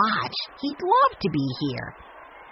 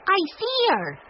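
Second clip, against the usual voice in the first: excited call; 14 semitones higher than usual. A narrator's reading. Benny shouting excitedly.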